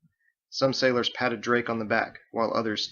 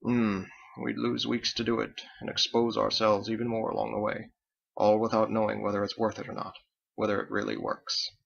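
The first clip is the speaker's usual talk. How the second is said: ruminating aloud. Acted. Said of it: "Captain began ruminating aloud".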